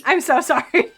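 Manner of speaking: high, loud apology breaking into laughter; laughing apology. Real, not acted. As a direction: apologise through real giggles. Laughing apology for making player hungry.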